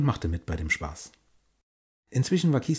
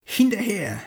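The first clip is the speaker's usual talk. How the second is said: high, loud pirate captain war cry; rally the crew, bellowing and slow; old sailor battle cry; 10 semitones higher, 5 dB louder, slower than usual. Acted. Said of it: "hallte ein Schlachtruf aus der Kehle ihres Kapitäns".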